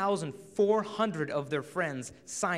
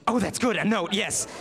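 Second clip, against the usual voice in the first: higher, louder gushing approval; excited schoolgirl; 4 semitones higher, 4 dB louder than usual. Retold or imitated. Friend cheering the note plan, excited schoolgirl. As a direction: squeal that the note plan is great. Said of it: "your friend's like".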